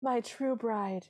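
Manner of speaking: high, drawn-out mock swoon; hammed-up dawning recognition; prince's retold realization. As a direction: gasp the oh high, then stretch out the rest. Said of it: "And he goes".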